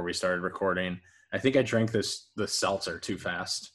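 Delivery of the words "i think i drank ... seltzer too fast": speaking through hiccups; words broken by hiccups. Real, not acted. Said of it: "Excuse me, I have the hiccups".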